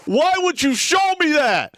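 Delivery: high, loud disgusted wail; disgusted laughter. Real, not acted. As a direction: cry out in horrified laughter. Reacting to a disturbing photo.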